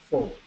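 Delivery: "forward" with the R barely there; unstressed R. Shown as a demonstration. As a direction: say "forward" easily, without pushing the R. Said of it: "no se le da tanto ese estrés".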